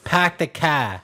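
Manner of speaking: Boston accent. Shown as a demonstration. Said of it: "Boston accents?".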